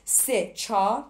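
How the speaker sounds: drawn-out teacher's count for the class; slow counted demo. Shown as a demonstration. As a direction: count it out very slowly, beat by beat. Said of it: "ببین اینجا".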